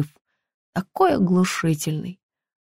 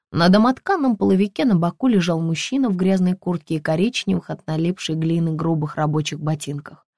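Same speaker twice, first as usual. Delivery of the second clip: usual speaking voice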